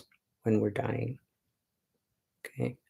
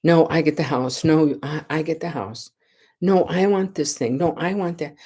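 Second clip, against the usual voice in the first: mock squabbling; 4 semitones higher than usual. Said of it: "arguing over her".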